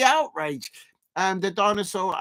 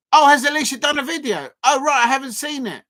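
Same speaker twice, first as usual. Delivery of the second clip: surprised; 6 semitones higher, 6 dB louder than usual. Real, not acted. Learns of a new video.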